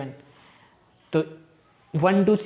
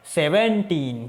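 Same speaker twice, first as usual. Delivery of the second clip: drawn-out teaching; much slower than usual. Shown as a demonstration. Teacher models number reading.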